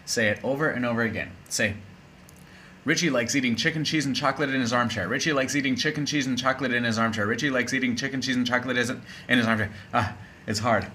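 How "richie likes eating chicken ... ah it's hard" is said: racing through a tongue twister for the class; fast tongue twister. Shown as a demonstration. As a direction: rattle it off as fast as you can. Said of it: "say this as fast as you can".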